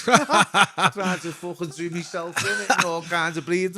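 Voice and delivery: high, laughing through the words; can't keep a straight face telling it; real laughter breaking into the line. Real, not acted. Laughing at own overdose story.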